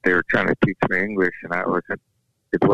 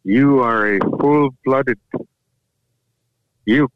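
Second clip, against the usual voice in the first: proud grandpa; 4 semitones higher than usual. Retold or imitated. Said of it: "He said".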